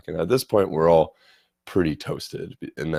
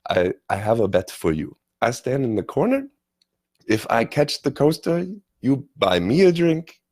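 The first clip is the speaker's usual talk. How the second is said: imitating an eager German, pitched up at first; excited German accent; 4 semitones higher than usual. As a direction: propose a bet in a mock German accent. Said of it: "he's getting super excited".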